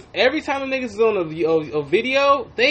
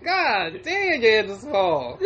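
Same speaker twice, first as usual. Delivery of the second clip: laughing through it; slower than usual. Pretend. Imagined reaction, laughing.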